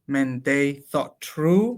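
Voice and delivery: slow, measured recital of the English lines; slow verse reading. Acted. To a colleague, reciting translated Lope verse slowly. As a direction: savour each line of the sonnet, slowly.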